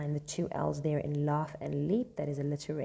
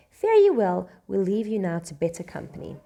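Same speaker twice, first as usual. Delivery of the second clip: loud farewell; 3 semitones higher, 8 dB louder than usual. Acted. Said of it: "reading character's farewell".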